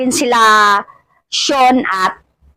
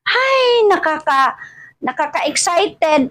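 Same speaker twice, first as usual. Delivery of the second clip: excited; 5 semitones higher, slower than usual. Real, not acted. Excited cry about school.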